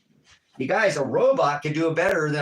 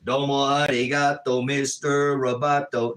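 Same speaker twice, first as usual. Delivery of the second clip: robot voice. Pretend. Joking to viewers about robots, lightly robotic. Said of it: "just kidding".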